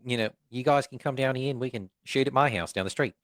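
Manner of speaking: light New Zealand accent impression; a hint of a Kiwi director. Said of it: "was that a good New Zealand accent".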